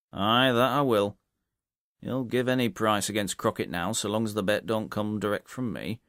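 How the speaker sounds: hearty publican, half-impressed; landlord. Acted. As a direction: bluff landlord, admiring. Landlord voiced in story.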